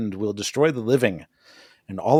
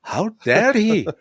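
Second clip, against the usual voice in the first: high, hammed-up Scottish lord accent, indignant; mock Scottish lord accent; 10 semitones higher than usual. Host mocks the castle tapestry scene in a hammed-up Scottish accent. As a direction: play an offended Scottish lord in a put-on Scottish accent. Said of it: "I can do all those accents".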